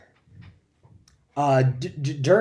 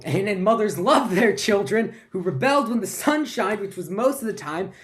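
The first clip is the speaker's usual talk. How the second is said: high, louder, stammering history rundown; mounting frantic recital; 6 semitones higher, 5 dB louder than usual. Acted. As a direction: build the list to a frantic pitch. Comic monologue racing through history, building.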